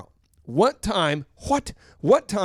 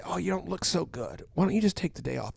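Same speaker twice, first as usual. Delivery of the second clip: coaxing voice; 6 dB quieter than usual. Retold or imitated. World's coaxing voice.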